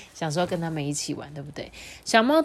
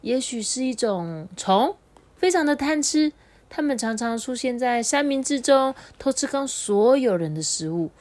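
slow, knowing mock mystery; hint with a sly hush; sly mother storytelling; 6 semitones higher than usual. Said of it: "猫头鹰妈妈就说".

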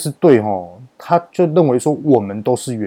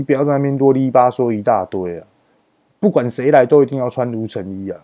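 re-enacted irritated scolding, mildly raised voice; retold angry telling-off; 2 semitones higher than usual. Worker tells the technician to stop nagging and suit up, retold scolding. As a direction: scold impatiently, as if cutting off a complainer. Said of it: "然后我很大声跟他讲".

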